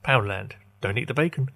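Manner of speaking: mock advert slogan read; ad tagline voice. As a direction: announce it like a shop jingle. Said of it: "that's pretty much their tagline".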